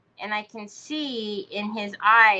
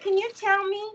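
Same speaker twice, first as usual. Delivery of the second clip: sarcastic demand; 8 semitones higher than usual. Retold or imitated. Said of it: "I said".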